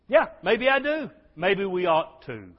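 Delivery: high, loud comeback; exuberant, over the top. Real, not acted. Preacher answering his doubters, exuberant and over the top. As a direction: answer big, stretching out the last part. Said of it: "as exuberant and over the top as I am".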